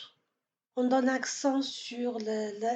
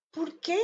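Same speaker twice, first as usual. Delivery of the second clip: porquê higher in pitch, stressed on QUÊ; final-syllable stress; 5 semitones higher than usual. Shown as a demonstration. Teacher repeats porquê, stress on last syllable. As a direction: land on the end of porquê. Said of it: "il est dans la dernière syllabe".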